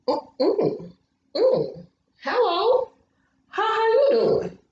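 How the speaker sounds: high, coy hello to a stranger; flirty greeting. Pretend. Calling out to the cute neighbor, high coy flirting.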